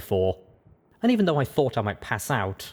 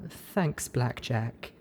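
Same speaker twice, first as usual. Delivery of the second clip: soft, grateful whisper; 3 semitones higher, 5 dB quieter, much slower than usual. Acted. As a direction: breathe it out softly. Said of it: "she whispered softly".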